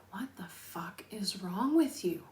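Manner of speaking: hushed retort. Retold or imitated. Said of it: "and he's like".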